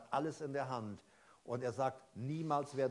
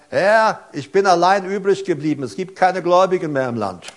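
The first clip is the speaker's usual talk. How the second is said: a hint of a whiny complaint, pitched up; mock whining; 5 semitones higher, 21 dB louder than usual. Preacher mimicking Elia's self-pitying complaint, a touch whiny. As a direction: play Elia moaning to God, lightly. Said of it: "Immer am Jammern".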